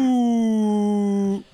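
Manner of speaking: long, high-pitched "ooh"; drawn-out falsetto-like ooh; high hoot. Retold or imitated. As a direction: hold a high hooting note. High drawn-out hoot amid noise imitation.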